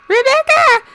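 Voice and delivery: loud, very high mock yell of a name; high-pitched joke yell. Imitating an actor joking with his trademark yell, high-pitched. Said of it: "in a high-pitched voice, like, as a joke".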